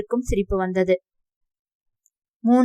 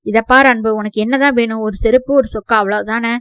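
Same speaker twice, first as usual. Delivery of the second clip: loud, exasperated reply; heated retort; 8 dB louder than usual. Acted. Uncle snaps back at angry nephew, loud and exasperated. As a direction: shout him down, fed up.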